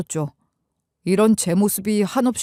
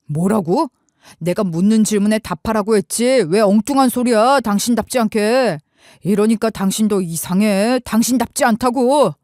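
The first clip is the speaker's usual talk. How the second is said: irritated retort; 3 dB louder than usual. Retold or imitated. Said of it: "짜증이 팍 나는 거예요".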